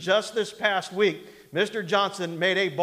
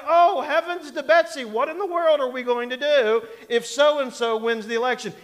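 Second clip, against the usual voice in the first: higher, louder mock panic over the election; hammed-up fretting; 5 semitones higher, 4 dB louder than usual. Preacher parodies panicked voters, hammed-up and higher. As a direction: ham up the hand-wringer's alarm. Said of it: "He's not sitting there going".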